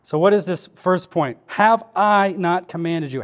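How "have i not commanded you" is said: slow verse with a weighted "I"; deliberate emphasis on "I"; stress on I. Shown as a demonstration. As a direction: lean on "I" as you recite. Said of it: "The emphasis I see here is I".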